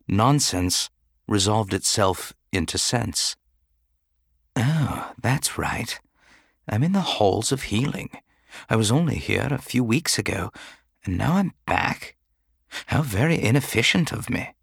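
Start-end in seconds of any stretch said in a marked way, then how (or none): 4.6-14.5 faint and frail, barely voiced; weak patient just waking; thin weak voice. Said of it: "his voice so thin, so insubstantial".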